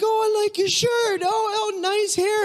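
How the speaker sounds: very high, sing-song mock friendliness; friendly American stranger. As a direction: gush over their shirt like an overly nice shopper.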